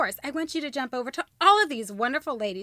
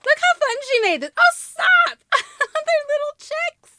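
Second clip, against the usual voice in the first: high, slow, laughing coo; real delighted squeal; 6 dB louder than usual. Real, not acted. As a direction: gush over something cute. Delighted by decorated gift.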